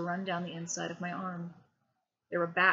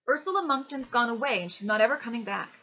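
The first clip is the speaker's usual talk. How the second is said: higher, louder pleading insistence; insistent boy; 4 semitones higher, 7 dB louder than usual. A narrator's reading. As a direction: stand firm against Dad.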